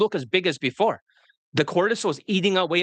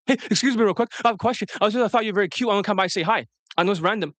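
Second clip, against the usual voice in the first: high, hurried nervous approach; rushed fast talk; 5 semitones higher, much faster than usual. Shown as a demonstration. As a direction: rush the pickup line anxiously. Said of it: "You talk fast like that".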